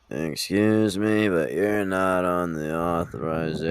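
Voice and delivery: put-on slow, bored old nurse; lightly voiced jaded old nurse; uncaring old nurse. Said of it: "my impression of an old nurse who does not care".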